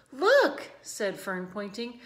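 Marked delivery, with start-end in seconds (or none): 0.1-0.7 excited call. A narrator's reading. Excited girl pointing.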